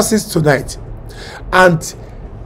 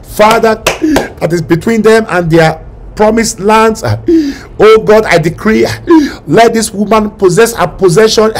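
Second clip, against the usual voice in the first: impassioned preaching prayer; fervent pastor's prayer over the congregation; 3 semitones higher than usual. Acted. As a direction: pray over the crowd with fervour.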